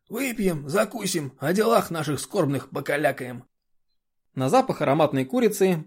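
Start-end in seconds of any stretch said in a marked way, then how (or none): 0.1-1.3 хриплая блатная интонация Горбатого; под Горбатого, с ленцой; как Горбатый. Retold or imitated. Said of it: "Как Горбатый из фильма". 1.4-3.4 голос Горбатого. Retold or imitated. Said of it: "Как Горбатый из фильма".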